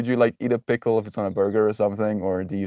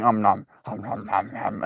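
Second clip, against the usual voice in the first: dog munching noise; 4 dB quieter than usual. Retold or imitated. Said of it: "this dog is going".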